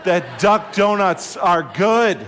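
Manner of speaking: playful mock psalm over a donut; delighted donut exclamation. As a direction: relish every word, then burst out on good. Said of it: "I said".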